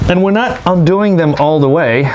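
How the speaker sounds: talking while lying on your back under a car. Real, not acted. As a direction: voice coming up from beneath a car. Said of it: "so I'm under the car now".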